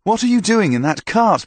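hearty knight. Acted. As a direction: praise him like a proud old soldier. Knight questions Thomas.

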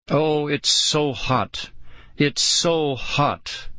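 slow, drawn-out mock whine; a hint of a whiny girl, mocked. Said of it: "making fun of Lauren's whiny voice".

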